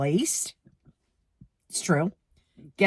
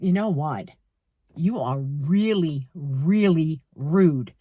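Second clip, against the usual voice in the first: silent rebuke; 4 semitones lower, slower than usual. Retold or imitated. What she thought of clerk.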